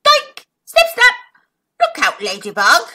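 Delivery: high loud snaps, then warning; a hint of a grinning crocodile. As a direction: snap like jaws. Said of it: "he smiled".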